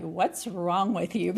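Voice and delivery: slow, half-laughing mock jab; blunt accusing question. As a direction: toss out the dreaded question with a wry laugh. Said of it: "the term that so many women don't wanna hear".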